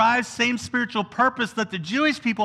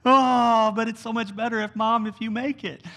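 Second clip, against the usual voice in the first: put-on whiny teenager. Teenager wanting mom to make the food, mock wheedling. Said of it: "when you were a teenager".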